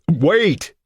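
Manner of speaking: high, loud desperate cry; panicked yell. A narrator's reading. Husband begs the neighbour not to hang up, loud panic. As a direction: stop him before he hangs up. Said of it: "Richards yelled, panic in his voice".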